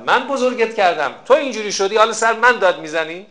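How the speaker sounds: a mother scolding her grown son, lightly played; hurt mother. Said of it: "بعد بهش گفت".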